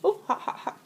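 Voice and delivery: yelping over a hot bite; mouth full of hot food. Real, not acted. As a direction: blurt it out as the food burns.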